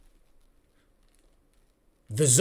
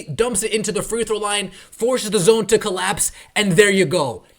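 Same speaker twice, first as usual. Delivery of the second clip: louder, higher, emphatic play call; coaching rundown; 3 semitones higher, 4 dB louder than usual. Shown as a demonstration. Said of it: "demonstrates breaking a zone".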